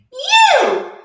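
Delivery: high, loud call; sharp shout. A narrator's reading. Witch calling the cow, loud. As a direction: bark it at the cow. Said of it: "Grinch said to the cow".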